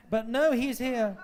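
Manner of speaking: laughing through the words, slow. Real, not acted. Judge jokes about the act from Leicester, laughing. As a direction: chuckle it out. Laughing at her own joke.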